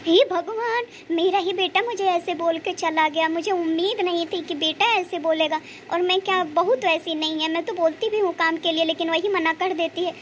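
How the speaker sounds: a touch of crying in the voice; tearful lament. Acted. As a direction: lament like a hurt mother wronged by her son. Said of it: "आप रो क्यों रही हो?".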